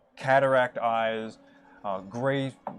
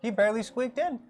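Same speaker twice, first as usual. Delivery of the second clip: lightly higher doddery rabbit elder; a hint of the old rabbit; 5 semitones higher, 3 dB quieter than usual. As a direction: keep the old rabbit voice, gentler.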